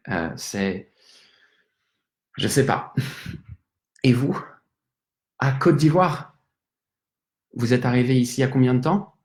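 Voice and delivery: lightly voiced drunk French guy; a chatty, tipsy Parisian, loosely played; tipsy Frenchman. Drunk Frenchman in a bar bathroom.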